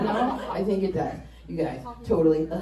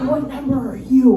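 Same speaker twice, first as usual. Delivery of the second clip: mock angry mom, a bit louder; 4 semitones higher, 6 dB louder than usual. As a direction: snap it like a suspicious mom. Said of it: "My mom says, angrily".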